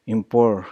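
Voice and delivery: "import" con la R bien marcada. Shown as a demonstration. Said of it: "the R in important".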